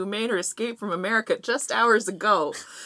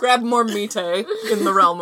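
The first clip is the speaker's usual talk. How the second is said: laughing; 6 dB louder, slower than usual. Real, not acted. Pun repeated with laughter.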